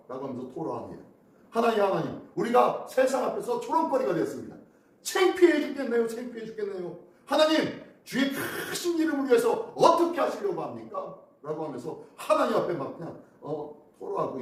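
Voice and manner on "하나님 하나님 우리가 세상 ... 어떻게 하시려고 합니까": lament. Retold or imitated. Pastor voices Joshua's complaint.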